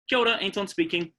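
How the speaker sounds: demoing a friendly phone pickup; phone greeting. Shown as a demonstration. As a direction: answer the phone cheerfully with kia ora. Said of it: "That's how I answer the phone".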